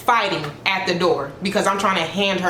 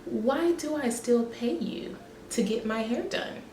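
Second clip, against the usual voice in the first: unvoiced, hushed confrontation; whispered mock; 5 semitones higher, 8 dB quieter than usual. Client quietly challenging her stylist, whispered. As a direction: breathe it out as a whisper.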